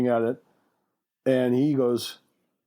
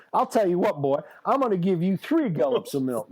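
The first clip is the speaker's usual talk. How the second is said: Southern parent; 4 semitones higher than usual. Acted. Voicing smug Southern parent.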